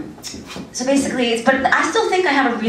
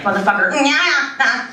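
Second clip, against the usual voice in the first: slightly higher, drawn-out tic noises; imitated tic release; 4 semitones higher, slower than usual. Sister imitating brother unloading his tics at home, mock tic outburst. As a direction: let the held-in tics spill out. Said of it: "unloads it".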